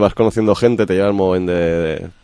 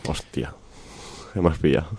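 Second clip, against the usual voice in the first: rough morning-after voice; hungover. Real, not acted. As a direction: speak like you're hungover. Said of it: "Estoy de resaca".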